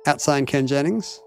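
spoken punctuation, every mark read aloud; dictating. Pretend. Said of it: "reading punctuation aloud".

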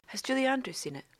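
hushed whisper. Real, not acted. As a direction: lean in and whisper it. Whispered question.

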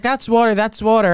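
loud insistent yell; crowd shouting. Retold or imitated. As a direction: shout it at the stage. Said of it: "everyone's like".

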